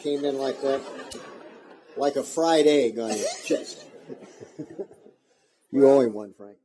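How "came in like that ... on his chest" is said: laughing. Real, not acted. Funny punchline of story.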